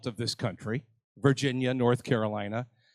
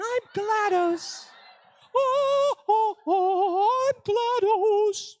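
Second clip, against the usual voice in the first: very high, slow robotic voice; mock GLaDOS impression; slower than usual. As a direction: drag it out like a computer AI. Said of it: "I can pretend that I'm the other actors".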